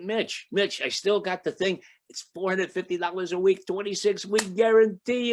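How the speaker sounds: gushing the deal to a friend; excited. Retold or imitated. Excited call to buddy about deal.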